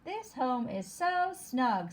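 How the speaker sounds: slowish, lightly sung out; a hint of a cosy bug. Teacher voicing the bug again, mildly. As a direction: let the bug sound content. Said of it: "says the bug".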